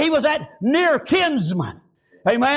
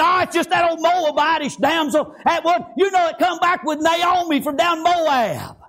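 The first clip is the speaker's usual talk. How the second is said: sarcastic. Retold or imitated. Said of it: "I believe he said it kinda sarcastically".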